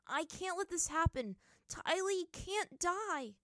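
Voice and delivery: high, loud and dragged-out plea; desperate cry. A narrator's reading. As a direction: refuse it with all you have. Aang desperate protest.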